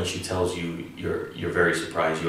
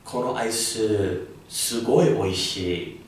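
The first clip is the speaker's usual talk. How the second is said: delighted; 3 semitones higher than usual. Shown as a demonstration. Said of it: "you're really liking it and surprised about it".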